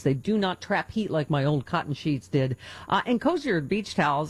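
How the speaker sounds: enthusiastic personal endorsement read; live ad read. Acted. Radio host praising bamboo sheets to listeners, upbeat ad read. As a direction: sell it like a favorite product.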